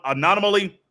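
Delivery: ordinary delivery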